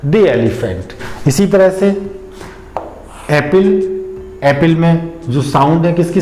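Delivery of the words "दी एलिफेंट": दी kept short and unstressed before elephant; lower, linked दी elephant with weak दी; light stress on दी. Shown as a demonstration. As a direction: go lightly over दी and straight into "elephant". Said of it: "दी पे जो stress है".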